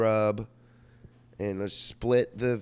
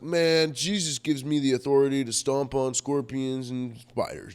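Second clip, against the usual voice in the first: higher, louder argumentative tone; retold argument; 4 semitones higher, 4 dB louder than usual. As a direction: push your point hard in a heated debate. Retold heated debate with friend.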